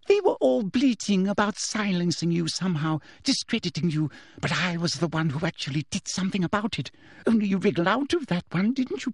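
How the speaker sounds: vengeful official. A narrator's reading. Teacher rails at pupil before cursing him, indignant. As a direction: gloat with rising indignation.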